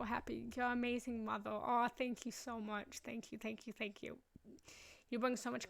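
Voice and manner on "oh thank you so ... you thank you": touched thanks. Real, not acted. Thanks a listener for praise.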